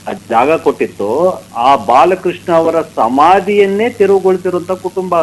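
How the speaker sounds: loud, measured outrage; indignant. Real, not acted. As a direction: press each phrase home in real indignation. Indignant account of demolished tombs.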